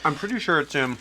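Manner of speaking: talking through a mouthful of food; mouth full. Real, not acted. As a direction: speak around a bite, mouth full. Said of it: "I'm speaking with my mouth full".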